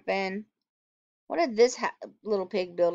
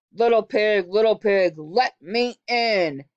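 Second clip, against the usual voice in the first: wolf voice; 5 dB louder than usual. Acted. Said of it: "said the wolf".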